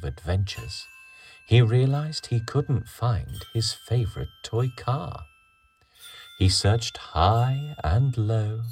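gentle read-aloud storytelling; storybook narration. A narrator's reading. Reading story to children.

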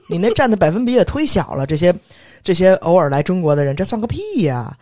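loud scornful comeback; heated retort. Retold or imitated. Telling off her arrogant boss, loud and scornful. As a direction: let it rip, dismissive and loud.

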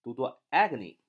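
letters spelled very slowly; drawn-out letter by letter; slow spelling out. Shown as a demonstration. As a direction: spell agony slowly for the class.

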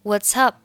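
"What's up" with an unreleased final p; 失去爆破. Shown as a demonstration. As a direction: link "What's up", stop the p without a puff. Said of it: "末尾的p失去爆破". (up末尾p不爆破)

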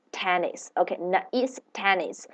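"tennis" said softly, falling; soft model word. Shown as a demonstration. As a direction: quietly repeat "tennis". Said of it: "So together".

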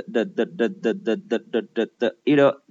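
quick repeated "的" as a light d, low; low "的" taps leading into "it'll" said "iddle"; voiced t. Shown as a demonstration. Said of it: "浊化成了的".

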